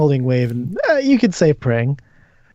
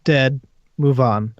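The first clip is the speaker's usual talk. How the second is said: measured, descriptive narration; game master's scene setting. Acted. Game master describes an eerie house to the players, measured narration. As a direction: paint the scene for the players, phrase by phrase.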